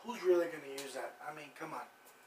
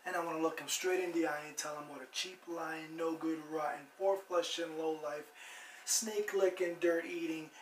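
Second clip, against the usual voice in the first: angry rant building from firm talk to loud, raised shouting; building tirade; 6 dB louder than usual. Acted. Host reciting a memorized movie scene about Trump, building tirade. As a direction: pile up the insults, louder and louder to the end.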